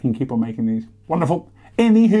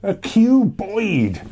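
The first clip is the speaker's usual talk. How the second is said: dramatic alien announcement; 7 semitones higher, much slower than usual. Pretend. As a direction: say it like an alien is coming. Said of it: "Makes it sound like an alien".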